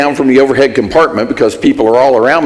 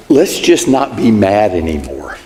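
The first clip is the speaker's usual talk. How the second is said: evasive apology; 4 semitones lower than usual. Retold or imitated. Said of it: "It goes something like this".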